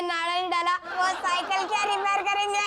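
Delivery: scoff, then break into giggles; amused, teasing jeer; mocking laughter. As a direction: laugh at dad's repair skills. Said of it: "अपने लाचार बाप पे हंसते हुए".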